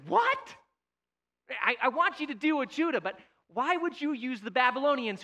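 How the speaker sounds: high-pitched yelp of disbelief, then baffled questioning; incredulous protest. Acted. Prophet objecting to God's choice of Babylonians, incredulous protest.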